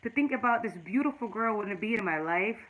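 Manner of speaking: real tearful catch with a heavy sigh; fighting back real tears; choked up. Real, not acted. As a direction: voice fading as tears well up. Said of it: "that just tear me up".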